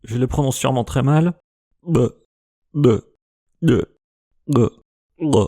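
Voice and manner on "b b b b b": B made as an implosive, glottis lowered; each B sucked slightly inward; implosive consonants. Shown as a demonstration. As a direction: say B as if nearly breathing air in. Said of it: "les implosives".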